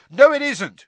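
high, loud contradiction; heated yell; angry shout. A narrator's reading. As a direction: shout the objection down. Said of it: "shouted Ron".

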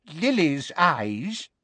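put-on slow, wheezy old wizard. Old wizard at the back, wheezy and slow. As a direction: breathe it out, wheezing. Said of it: "said a wheezy-voiced".

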